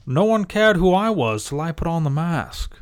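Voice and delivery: a weak, lightly voiced villain growl; bad Bane impression. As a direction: try for Bane and miss. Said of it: "That doesn't sound like Bane at all".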